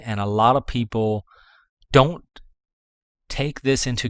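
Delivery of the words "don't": don't lifted high and hit louder, alone after a pause; stress on don't. Real, not acted. Warning new store owners about a common mistake, stressing don't. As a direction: lean hard on the single word don't.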